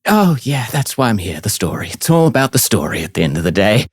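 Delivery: the left-out bard complains to the party, high and sarcastic; Aiko's sulky voice. Acted. GM voices Aiko.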